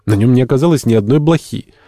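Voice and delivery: high, loud note of disappointment; openly chagrined. A narrator's reading. Entomologist combed Dingo for nothing, openly chagrined. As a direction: bemoan the failure. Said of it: "с нескрываемым огорчением".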